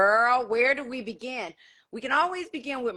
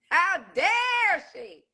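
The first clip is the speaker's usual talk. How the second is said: slow, higher drawn-out outrage; rising indignation; 5 semitones higher, 3 dB louder, much slower than usual. Real, not acted. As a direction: push the second one harder. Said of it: "repeated with different force".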